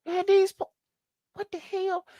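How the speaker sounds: high whispered disbelief, no voice; mock whisper. Reacting to the threat video in a high shocked whisper. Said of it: "And I'm like".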